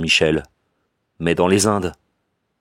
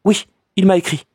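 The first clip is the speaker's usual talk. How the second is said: higher, lightly forced assertion; cousin lying; 12 semitones higher, 3 dB louder than usual. A narrator's reading. Cousin lies to the narrator, higher and forced. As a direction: say the lie a little too firmly. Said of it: "elle osa mentir".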